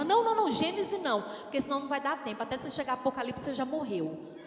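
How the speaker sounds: quick, urgent correction; imitated rapid-fire objection; hurried interruption. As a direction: cut in fast to steer him away. Acts her hurried interruption.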